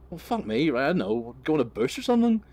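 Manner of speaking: mock outrage at his friend; exasperated retort. Storyteller replaying his reply to Telford, high and loud exasperation. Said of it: "I'm like".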